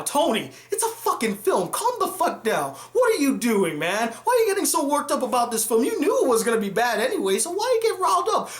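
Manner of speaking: fast, mocking voice of doubting viewers; imitating viewers. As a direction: rattle off the critics' objections. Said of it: "I know what you're all thinking".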